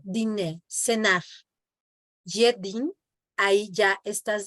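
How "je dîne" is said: "Je dîne" ending on the N, final E silent. Shown as a demonstration. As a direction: say "dîne" as "deen", no vowel after the N. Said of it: "ya no pronuncias la E".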